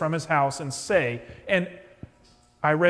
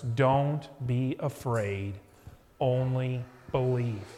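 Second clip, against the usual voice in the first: slow, lower comforting words; steady him gently, slowly; reassuring; 4 semitones lower, slower than usual. Acted. Jesus slowly comforting Jairus after the death news.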